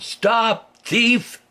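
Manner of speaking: put-on high, sharp shout of an angry old gardener; angry gardener yelling. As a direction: yell at the thief rabbit. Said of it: "he yelled".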